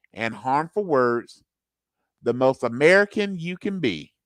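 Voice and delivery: rousing patriotic orator, pitch swooping up and falling; America voice. Acted. Host reads a Fourth of July honest ad in a best America voice. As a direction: declaim it in rhymed, punched phrases. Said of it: "do it in my best, uh, America voice".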